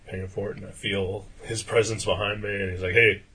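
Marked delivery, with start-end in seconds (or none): 2.9-3.2 loud, pestering call-out with long waits; imitated heckler. Rude stranger to the customer ahead in line, loud heckling.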